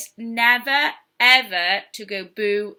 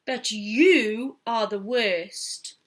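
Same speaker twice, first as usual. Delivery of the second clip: slow furious; much slower than usual. Acted. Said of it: "The man was furious".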